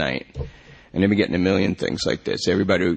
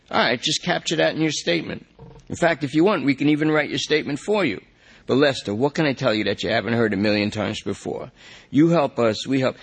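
higher, persuasive; coaxing detective; 5 semitones higher than usual. Acted. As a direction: talk the junkie into cooperating. Detective coaxes Lester.

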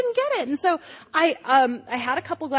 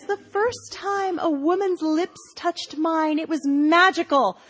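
slow, high, rapturous recollection; dreamy mom; 5 semitones higher, slower than usual. Retold or imitated. Mom tells Rosie about her first kiss, slow and dreamy. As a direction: drift through it slowly, starry-eyed.

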